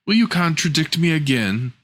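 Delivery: a hint of a sharp stepmother; mild stern stepmother. Stepmother scolds the girl, lightly voiced and stern. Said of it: "said the woman".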